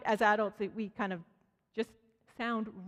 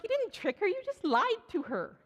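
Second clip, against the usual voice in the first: indignant retort; 11 semitones higher than usual. Retold or imitated. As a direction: call out the lie, pitched up and deliberate. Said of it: "I'm like".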